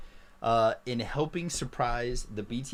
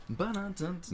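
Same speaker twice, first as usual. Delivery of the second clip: sung drum-roll fanfare; 5 semitones higher, 5 dB quieter than usual. Pretend. Hummed fanfare while showing item.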